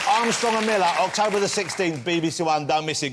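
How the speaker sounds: lightly put-on promo read; voiceover. Shown as a demonstration. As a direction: plug the show like a TV announcer. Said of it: "I do a voiceover for you".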